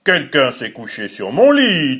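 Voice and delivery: a hint of the big bear; lightly deepened big bear voice; big bear's gruff voice. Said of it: "de sa grosse voix".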